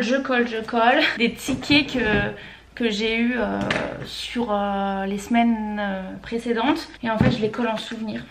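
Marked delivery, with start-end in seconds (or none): none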